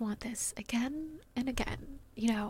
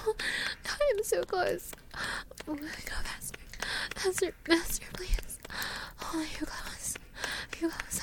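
urgent, breathy half-whisper, breaking into gasps; breathless passion; 3 semitones higher than usual. Acted. Lover to partner in an intimate moment, breathless and pleading. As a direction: pant the words out, pleading and repeating.

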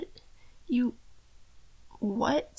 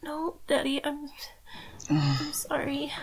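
scared whisper. Acted. Captive whispering apology and plea.

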